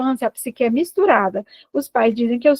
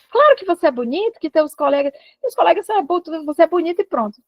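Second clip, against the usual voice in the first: higher-pitched, insistent contradiction; mildly exasperated parent cutting off the worry; impatient reassurance; 6 semitones higher, faster than usual. Acted. Parent dismissing an anxious child's fear of being ugly, impatiently. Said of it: "Aí isso perde a paciência".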